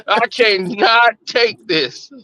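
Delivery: slow, emphatic mock despair; exasperated. Boyfriend fed up with a picky eater, slow exasperation. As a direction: draw it out as if at your limit.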